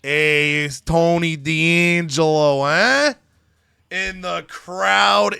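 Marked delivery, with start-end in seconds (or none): 0.0-3.1 Tony D'Angelo entrance. Retold or imitated. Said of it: "And then he hears".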